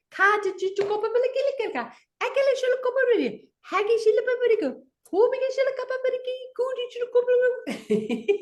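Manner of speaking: mock lawyer spouting nonsense, building to fast high chatter; lawyer gibberish. Former lawyer imitates giving clients advice, rising fast gibberish. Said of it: "I sounded like this".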